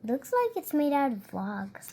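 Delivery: unvoiced, hushed comment on the picture; whisper. Real, not acted. Child whispering back about the house picture, whispered. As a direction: say it on breath alone, softly.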